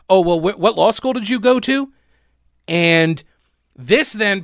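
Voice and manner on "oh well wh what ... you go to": snapping. Retold or imitated. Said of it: "then snaps at Ochsner saying".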